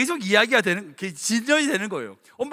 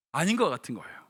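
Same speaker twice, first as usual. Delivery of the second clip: 아닌 것 같은 거예요 repeated much lower and softer; soft echo; 6 semitones lower, 5 dB quieter than usual. Real, not acted. Preacher softly echoing his own point, 아닌 것 같은 거예요 said low and soft.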